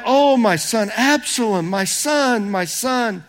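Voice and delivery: a father's mournful lament; anguished cry. Acted. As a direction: cry out for a lost son, then let it sink. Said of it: "he cried".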